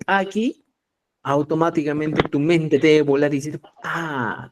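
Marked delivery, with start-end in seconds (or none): 3.8-4.5 AH begun with a popped ejective p; glottalized consonant. Shown as a demonstration. Teacher linking writing to sound, glottalized AH. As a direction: pop the lips sharply into AH. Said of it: "su fonema consonántico glotalizado".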